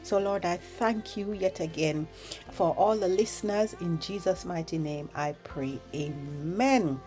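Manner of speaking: soft, earnest spoken prayer. Acted. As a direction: pray quietly, hushed and sincere. Leads a prayer.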